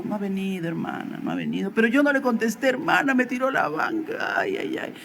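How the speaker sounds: mildly mock-weeping wife; retold tearful lament. Wife telling her pastor he hasn't come home, tearful lament. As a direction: imitate a tearful woman, ending in a little wail. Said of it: "vino llorando a mi casa".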